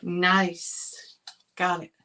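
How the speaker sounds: a quick whispered "nice". Real, not acted. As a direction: breathe it to yourself. Quiet craft approval.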